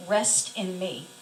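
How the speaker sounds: slow, soothing, measured words; gentle invitation. Retold or imitated. Jesus invites the weary patient to rest, gently. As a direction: offer rest slowly and calmly.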